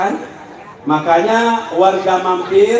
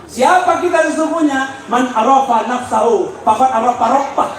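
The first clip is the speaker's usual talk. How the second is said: high-pitched rhetorical challenge; forceful preaching; 5 semitones higher than usual. Real, not acted. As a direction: put the question to the congregation forcefully.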